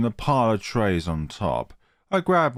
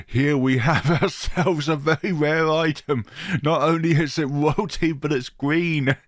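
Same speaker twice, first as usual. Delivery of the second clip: higher, hammed-up posh waiter; posh accent; 5 semitones higher than usual. Waiter act shows off a rare item to Gidget, posh accent. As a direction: present it grandly in a put-on posh accent. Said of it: "in my best posh accent".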